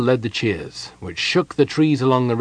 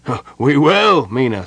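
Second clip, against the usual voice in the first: shouted; 4 semitones higher, 7 dB louder than usual. A narrator's reading. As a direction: shout your pledge like a rallied soldier. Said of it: "several shouted".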